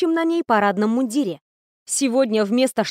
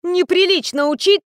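higher, louder scolding; mother shrilly insisting; mother shouting at daughter; 7 semitones higher, 4 dB louder than usual. A narrator's reading.

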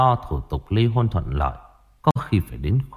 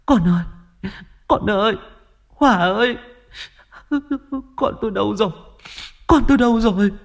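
high, desperate wailing calls; anguished calling; 12 semitones higher, faster than usual. Acted. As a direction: cry out searching the dark pond. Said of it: "âm thanh kêu gọi thảm thiết của bà". (mẹ kêu gào thảm thiết tìm con)

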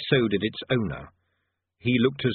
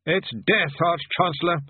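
raised, patient explaining voice; patient bursar; 7 semitones higher than usual. A narrator's reading. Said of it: "said the bursar patiently".

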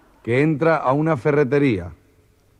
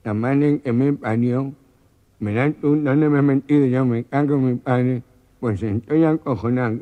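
scared mumble. Acted. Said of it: "muerto de miedo".

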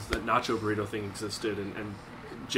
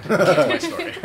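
high, loud, slow words through a laugh; real laughter breaking the words; 6 semitones higher, 9 dB louder than usual. Real, not acted. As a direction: laugh it out as you say it. Laughs at own joke.

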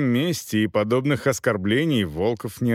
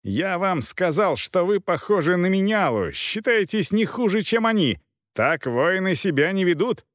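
raised, higher-pitched yelling at the knight; captain shouting back, higher and heated; 7 semitones higher than usual. A narrator's reading. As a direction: bark it up high, offended. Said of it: "заорал капитан".

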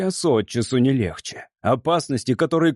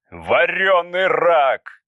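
slow, louder swear; cursing; 4 semitones higher, 3 dB louder, much slower than usual. Acted. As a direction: spit out the curse. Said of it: "выругался Устриц". (ругательство, медленно и с досадой)

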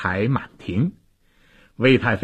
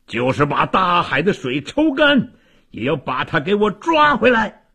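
high-pitched, narrated kingly cry; straining shout; 7 semitones higher than usual. A narrator's reading. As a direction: cry out the order with all your force. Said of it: "魏王声嘶力竭地喊道".

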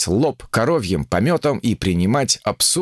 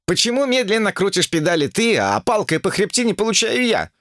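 higher wailing complaint; 11 semitones higher than usual. Acted. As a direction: whine it out, higher. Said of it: "взвыл его толстый пассажир".

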